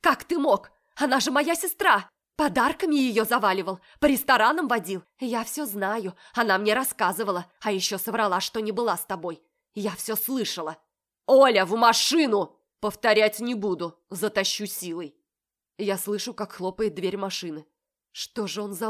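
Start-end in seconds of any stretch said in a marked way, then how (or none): 0.0-10.8 higher, louder accusing rant; screaming. A narrator's reading. Olya screams accusations at Marat. 11.3-15.2 much louder command; man threatening the sister; threatening shout. A narrator's reading. Marat threatening Olya.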